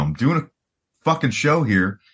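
mock-polite with an edge; passive-aggressive. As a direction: ask with passive-aggressive restraint. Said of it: "my passive aggressive way of being like".

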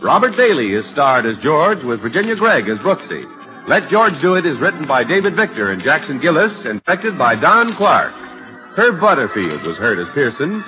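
classic radio announcer delivery; old radio announcer. Acted. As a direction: read the credits like a vintage broadcast. Announcer reads credits over music.

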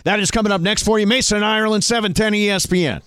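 punchy broadcast tease voice; radio tease. Acted. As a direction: hype up the next segment. Radio host teases next segment.

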